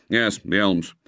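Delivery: curt, resentful reply. Acted. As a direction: brush off the intruder. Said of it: "as if resenting the intrusion".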